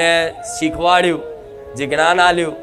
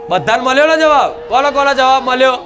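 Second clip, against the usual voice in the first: shouted questions to devotees; raised voice; 6 semitones higher than usual. Acted. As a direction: call over the crowd, asking who got answers. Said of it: "આટલું રાડો પાડી પાડીને બોલવું પડે".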